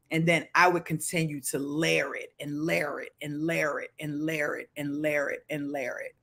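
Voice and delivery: put-on a light Baltimore accent, low and soft. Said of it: "That's my Baltimore accent".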